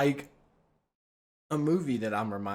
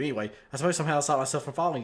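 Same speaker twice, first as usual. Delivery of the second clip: fast flat monotone voice; 2 semitones higher, faster than usual. Acted. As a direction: read it in a monotone voice, quickly. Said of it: "you say in a monotone voice".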